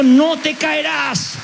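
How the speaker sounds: a lightly voiced, slow divine promise; voice of God. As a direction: speak as God comforting a child. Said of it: "Él va a estar allí diciendo".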